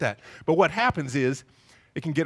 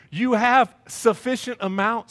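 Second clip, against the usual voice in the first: exasperated dad; 5 semitones higher, 5 dB louder, slower than usual. Retold or imitated. Exasperated dad scolding stuffed toddler.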